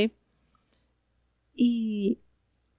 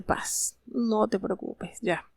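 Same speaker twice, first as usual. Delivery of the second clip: soft, hushed reassurance; calm and wise; 5 dB quieter, slower than usual. Acted. The Shunammite woman calmly reassuring her husband, softly and wisely. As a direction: quietly settle him with a near whisper.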